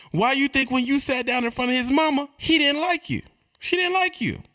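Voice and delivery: high, pointed questioning; high mock-incredulous lecture; high-pitched insisting.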